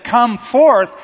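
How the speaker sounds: a call strong enough to empty a graveyard; booming order; powerful shout. Pretend. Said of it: "If Jesus with his power would have said".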